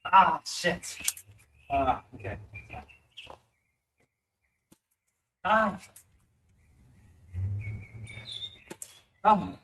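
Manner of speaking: pained groans after a hit. Real, not acted. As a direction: groan from a blow to the head. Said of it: "Ah, my head".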